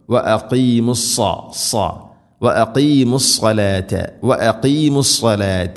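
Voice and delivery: സ്വലാത്ത with a thick, dark "swa"; weight the s of സ്വലാത്ത, reciting deliberately; heavy saad. Shown as a demonstration. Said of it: "കനപ്പിച്ച് ഉച്ചരിക്കണം".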